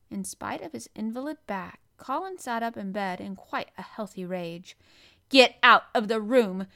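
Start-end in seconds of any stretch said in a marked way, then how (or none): 5.3-6.7 loud raging order; shouted. A narrator's reading. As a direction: shout them out in a rage. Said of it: "he shouted".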